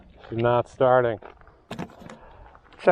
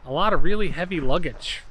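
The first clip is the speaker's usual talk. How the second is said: shouting over wind; 5 semitones higher, 11 dB louder than usual. Real, not acted. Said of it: "I hope you can hear me over the wind".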